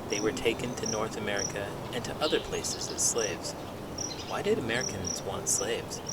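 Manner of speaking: put-on steady read-aloud for children; picture book read to young listeners; story narration. A narrator's reading.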